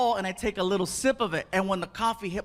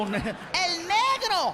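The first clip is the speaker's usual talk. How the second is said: mock Spanish nickname; 8 semitones higher, much slower than usual.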